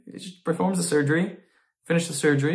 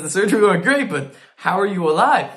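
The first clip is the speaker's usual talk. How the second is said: louder, higher astonished exclaim; doctor astonished the rabbi lives, louder; amazed doctor; 4 semitones higher, 5 dB louder than usual. Retold or imitated. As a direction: blurt it out in disbelief. Doctor amazed patient survived.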